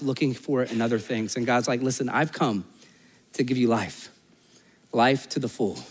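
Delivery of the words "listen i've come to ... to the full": low, soft acted assurance; hushed, gentle sincerity; tender promise. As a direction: offer it quietly, with pauses. God voiced offering life, tenderly.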